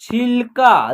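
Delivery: छिलका in two held syllables; pronunciation demo. Shown as a demonstration. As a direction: sound out छिलका, stretching the final का. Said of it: "तो क्या उच्चारण होगा?". (छिलका का खींचकर उच्चारण)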